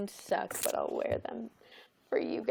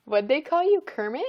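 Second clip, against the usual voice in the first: loud, higher-pitched incredulous question; louder repeat; 5 semitones higher, 12 dB louder than usual. Real, not acted. Repeating a misheard name to a friend, loud and incredulous. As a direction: ask it again, much louder.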